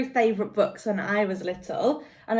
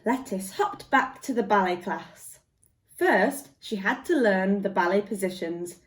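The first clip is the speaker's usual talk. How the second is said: gentle storybook read-aloud; lively picture-book reading; reading to children. Acted. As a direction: tell it like a bedtime story to little ones.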